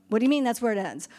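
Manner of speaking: quick, puzzled objection; mock incredulous protest. Imitating women's group objecting to the ending, mildly incredulous. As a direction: imitate a baffled listener objecting. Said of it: "And women's group are like".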